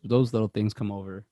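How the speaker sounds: ordinary talk, nothing marked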